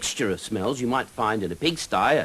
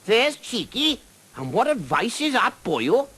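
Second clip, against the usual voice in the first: high, loud sing-song dragon; lilting dragon voice; 14 semitones higher, 4 dB louder than usual. Acted. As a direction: boom it up lilting and Welsh. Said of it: "lilting sing-song voice".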